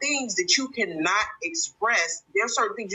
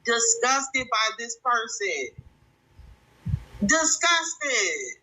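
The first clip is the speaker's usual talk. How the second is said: slow, disgusted; 4 semitones higher, much slower than usual. Real, not acted. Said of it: "I am just so disgusted".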